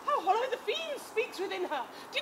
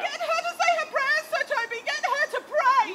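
louder, higher pleading urge; urgent call; 5 semitones higher, 6 dB louder than usual. Acted. Maria loudly urging Sir Toby to make him pray. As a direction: press them urgently.

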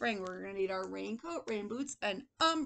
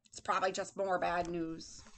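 lightly grumbled, lower; a hint of sour pessimist; grumpy old man; 4 semitones lower than usual. Teacher voices old man with paper, mildly grumpy. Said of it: "This man is very angry".

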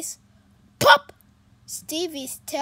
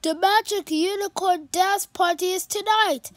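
a touch higher, quick unicorn voice; lightly voiced sad unicorn; 6 semitones higher, 6 dB louder, faster than usual. The speaker telling Pete about the party, lightly worried.

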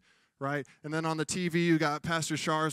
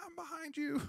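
comic reply; 12 semitones higher, 9 dB quieter than usual. Retold or imitated. God voiced, comic reply.

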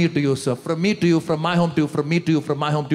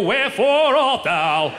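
slow, higher, laughing mock-theatrical; mock Shakespeare; 6 semitones higher, slower than usual. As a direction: declaim it like a stage actor. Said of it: "Shakespearean improv".

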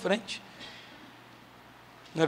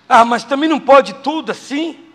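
louder, higher complaining listener; a higher, louder mock whine; whining objector; 6 semitones higher, 8 dB louder than usual. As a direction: protest like a member of the congregation.

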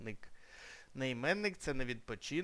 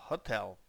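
hotel stressed on TEL; stress on second syllable; 4 semitones lower than usual. Shown as a demonstration. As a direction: say hotel with weight on the last syllable. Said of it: "наголос іде на другий склад".

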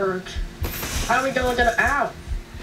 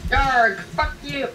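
pirate voice; 3 semitones higher, much slower than usual. Acted. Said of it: "no one likes pirates".

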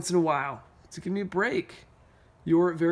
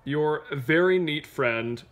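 fussy crayon letter; 5 semitones lower than usual. Acted. Reading Purple Crayon's complaint letter to Duncan, lightly exasperated. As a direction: read it as a mildly fed-up crayon.

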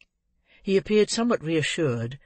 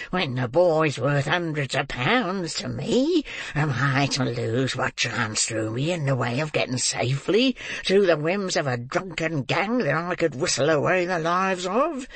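Fagin. A narrator's reading. Old man raging at the girl over lost money, mad with rage. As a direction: rant until breath runs out, stammering at the end. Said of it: "pursued Fagin, mad with rage".

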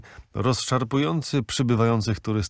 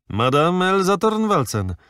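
high, loud exclaimed name; porter exclaiming; 8 semitones higher, 4 dB louder than usual. A narrator's reading. Porter eagerly calls out the famous swimmer's name, high and loud. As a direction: burst out with the name. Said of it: "krzyknął portier".

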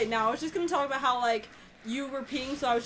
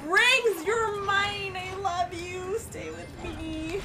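mock tender; 4 semitones higher, much slower than usual. Talking lovingly to game rings.

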